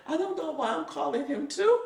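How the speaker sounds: breaking up with laughter mid-sentence; laughing. Real, not acted. Retelling the doctor's joke to the host, laughing. Doctor jokes during injections.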